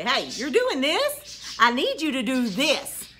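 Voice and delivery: slow, deliberate teacher voice; slow, strained politeness; patient instruction. Retold or imitated. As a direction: spell it out very slowly. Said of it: "I did finally say".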